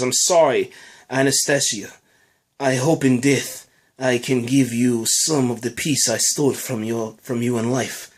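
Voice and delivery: put-on a light Russian accent on a low, solemn farewell line. Rabbit apologizing to his daughter before death, Russian accent. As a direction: read it like a Russian father saying goodbye, with a Russian accent. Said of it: "That was my, you know, Russian accent".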